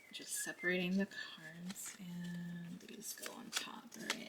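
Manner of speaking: soft whisper while moving cards; whisper while shuffling. Real, not acted. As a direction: murmur the steps in a whisper.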